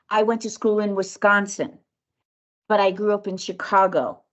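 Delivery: calm demo with falling ends; downward inflection. Shown as a demonstration. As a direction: let each phrase fall at the end. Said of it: "So it would be like".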